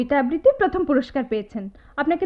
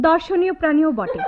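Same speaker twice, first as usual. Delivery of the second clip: scornful laugh; 3 semitones higher than usual. Acted. Insulting him with laugh.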